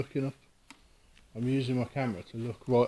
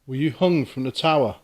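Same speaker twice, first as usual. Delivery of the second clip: calling out; 6 dB louder than usual. Real, not acted. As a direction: project your voice into the empty room. Calling out to a spirit.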